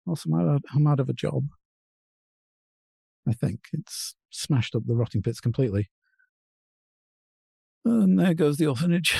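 put-on drunk. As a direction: play it much drunker. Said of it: "can you be drunker?".

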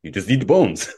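mild mock Lithuanian accent; attempted Lithuanian accent. Lithuanian roommate explaining how to eat fish, in a half-attempted accent. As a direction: try a rough Lithuanian accent. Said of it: "I don't know how to do their accent".

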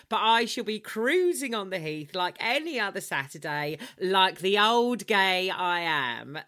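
mock-posh elderly cruiser, savouring each word; old gay man voice. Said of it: "I don't know why I did it in that voice".

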